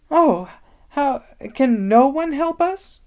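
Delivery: high, loud, slow wail. Acted. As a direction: cry out for help, mildly. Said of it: "wailed Lucy".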